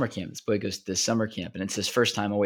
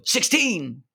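higher, louder call; called out number; 10 semitones higher, 4 dB louder than usual. Acted. Another camper calling out a joke number, raised and high. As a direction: sing out the number for a laugh.

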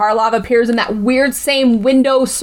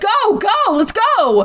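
mock panic; 10 semitones higher, slower than usual. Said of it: "She's like".

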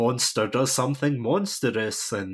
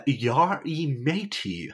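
higher, drawn-out fake pirate accent; mock pirate accent; 5 semitones higher, much slower than usual. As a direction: correct them with an overdone pirate accent. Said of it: "I think you mean".

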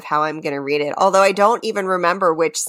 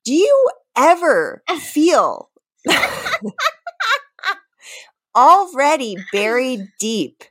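1 dramatic reading; 6 semitones higher than usual. Shown as a demonstration. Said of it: "just straight reading, not singing".

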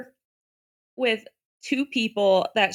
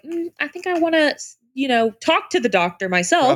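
skeptical parent; 4 semitones higher, faster than usual. Retold or imitated. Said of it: "I would be like".

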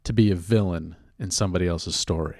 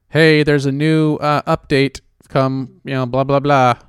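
badly faked nerd voice; lightly voiced nerd, a bit higher and louder; half-hearted attempt at playing a nerd; 4 semitones higher, 4 dB louder than usual. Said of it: "my pathetic attempt to be a nerd".

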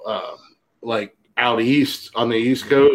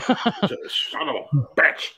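drawn-out curse through laughter; slow, laughing mock dismay; 4 semitones higher, much slower than usual. Mock reaction to retold refusal.

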